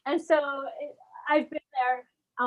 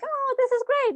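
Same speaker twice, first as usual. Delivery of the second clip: mock excitement; 12 semitones higher than usual. Retold own excited reaction.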